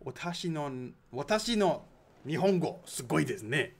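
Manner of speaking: hammed-up Japanese accent; mock Japanese phrase, playful. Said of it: "Are you laughing at my accent as well?".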